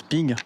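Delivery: drawn-out mock metallic ping of the Garand clip; imitated rifle ping. Joking to viewers about the Garand, long mock ping. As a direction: ring it out long like the ejected clip. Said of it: "trêve de plaisanterie".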